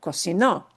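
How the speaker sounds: cocinó with its final o stressed. Shown as a demonstration. Teacher drilling the stressed final o of cocinó. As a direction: land on the last o of cocinó. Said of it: "punching the o at the end".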